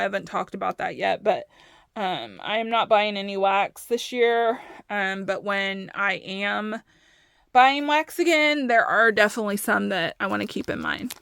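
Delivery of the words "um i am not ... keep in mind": short of breath from talking fast; rushing, nearly out of air; running out of air. Real, not acted. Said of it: "I'm running out of breath".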